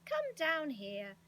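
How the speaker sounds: crying out. A narrator's reading. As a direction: call down loudly, stretching the words. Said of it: "cried Mister What's-his-name".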